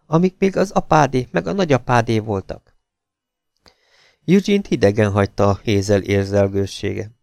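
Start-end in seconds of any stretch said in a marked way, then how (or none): 0.0-2.8 coaxing. A narrator's reading. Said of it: "Hízelgővé vált a hangja".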